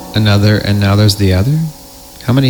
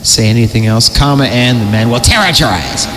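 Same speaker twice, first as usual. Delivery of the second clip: creepy story narration. Acted. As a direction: read it like a campfire horror tale.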